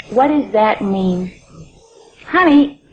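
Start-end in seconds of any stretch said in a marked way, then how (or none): 2.3-2.8 a mother suddenly panicked; alarmed. Acted. Mother alarmed by son's words.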